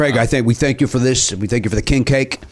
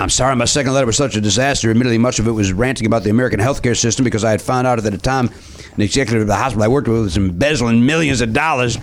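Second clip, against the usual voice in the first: put-on Cajun accent. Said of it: "you're still doing the accent".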